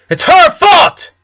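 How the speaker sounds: put-on slow, loud high kid shout; furious little girl yelling; high shrieking child blame. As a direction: scream the blame at her sister.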